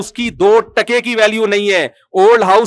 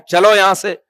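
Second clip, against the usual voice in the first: mock dismissive order; a hint of a boss dismissing staff; servant-style scolding; 3 dB louder than usual. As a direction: shoo someone away. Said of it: "یہ جو servant والا معاملہ ہے".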